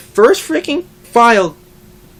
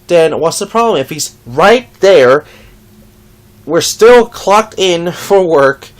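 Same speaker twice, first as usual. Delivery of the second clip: retelling a heated comeback, louder; exasperated retort; 7 dB louder than usual. Retold or imitated. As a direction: argue back, fed up. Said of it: "And I'm like".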